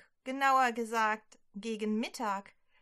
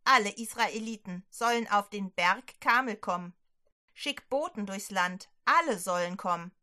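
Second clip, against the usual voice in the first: louder, firm prophet giving orders; commanding prophet; 3 dB louder than usual. Acted. Elia orders King Ahab to gather the people, loud firm command. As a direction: command the king without any doubt.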